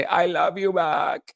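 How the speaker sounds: high, slow Kamala impression in a Hispanic accent; a Hispanic accent, playful impersonation of Kamala Harris. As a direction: mimic her with a Hispanic lilt. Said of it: "in a Hispanic accent".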